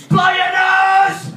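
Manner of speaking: telling them off. Acted. Scolding sniffling commuters, a slow loud command. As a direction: draw it out like a scolding order.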